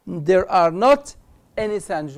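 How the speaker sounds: very slow, leaning on not; slow stressed not. Shown as a demonstration. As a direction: drag it out to mark the negative. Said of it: "teacher drill". (ببطء مع تشديد على not)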